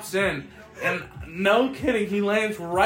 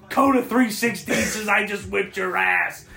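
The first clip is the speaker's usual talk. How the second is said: wrestling promo. Retold or imitated. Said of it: "cut my fucking cool little promo".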